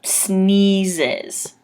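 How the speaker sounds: Sneezes said snee-zez, z sounds clear; teacher's Sneezes; careful pronunciation. Shown as a demonstration. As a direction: model Sneezes slowly and clearly. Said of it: "it sounds like this".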